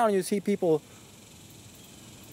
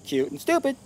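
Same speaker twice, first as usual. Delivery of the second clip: high, squawky parrot mimicry; 7 semitones higher than usual. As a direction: squawk it back like a talking bird. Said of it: "the bird replies".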